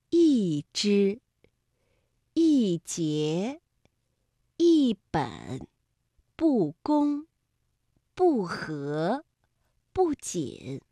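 一 and 不 falling on every word; word list 一枝 to 不仅, first syllable falling; fourth-tone sandhi. Shown as a demonstration. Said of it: "我们就要读第四声了".

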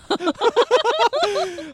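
high-pitched awkward laugh. Real, not acted. Host laughs at the awkward boss scene, high laugh.

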